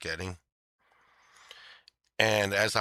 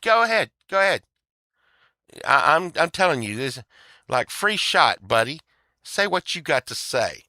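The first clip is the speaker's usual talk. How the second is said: taunting him to speak up, higher; mock challenge; 5 semitones higher than usual. Mocking her daring him in court, high and taunting. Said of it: "She said".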